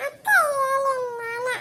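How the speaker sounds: put-on slow, teary child's voice; tearful plea. Little girl begging her sister, tearful and slow. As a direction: drag it out through tears.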